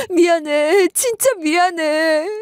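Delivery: a touch of sobbing in 진짜 미안해; tearful begging. Retold or imitated. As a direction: beg through tears. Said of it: "싹싹 빌더라고요".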